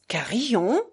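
puzzled echo of "Carillon", rising at the end; puzzled question. A narrator's reading. Doctor who hasn't understood repeats the name, puzzled. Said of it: "répéta le docteur qui n'avait pas compris".

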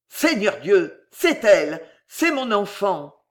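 a father who cannot believe it; joyful outcry; overjoyed cry. Acted. Father recognises his lost daughter.

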